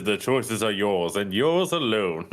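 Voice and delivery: a spooky, portentous speaking door; ominous door voice. Acted. Player voicing the talking door, ominous. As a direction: intone it like a mysterious magic door.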